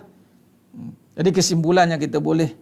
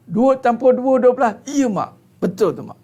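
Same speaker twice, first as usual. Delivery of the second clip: laughing mock agreement; 5 semitones higher than usual.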